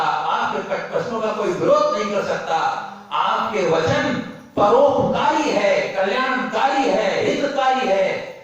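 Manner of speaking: lifted, ringing praise in a preacher's cadence; emphatic preaching. Retold or imitated. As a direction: recite the praise with measured force. Preacher recites quoted praise of a teacher. (जोश भरा प्रवचन)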